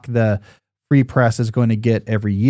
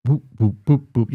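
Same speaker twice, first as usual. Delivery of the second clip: little spaced-out boops; vocal toy-band noises; imitated old-time percussion. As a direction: mimic spoons or a jug with short boops. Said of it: "someone playing the spoons or".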